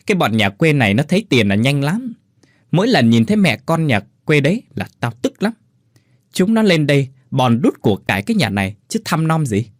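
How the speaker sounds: sneering, spiteful mother-in-law; mild spiteful sneer; spiteful nagging. Acted. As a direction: jab at her meant to be overheard. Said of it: "tiếng bà Tuyết đang đay nghiến, chỉ chiết".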